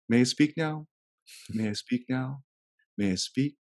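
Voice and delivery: polite, sweetly quiet request; a light imitation of a small girl's gentle ask. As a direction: ask ever so sweetly to cut him off. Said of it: "in the sweetest voice".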